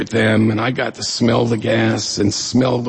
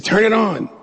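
high, urgent mock excitement; hyperventilating friend; 9 semitones higher than usual. Friend urging him to switch on the radio, acted excited. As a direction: imitate an excited friend pushing on the phone. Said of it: "he's all hyperventilating".

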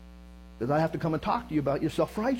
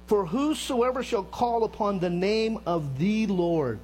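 slow, weighty scripture reading with "whosoever" punched; emphatic; slower than usual. Shown as a demonstration. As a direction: lean hard on "whosoever" and keep the whole verse deliberate and slow.

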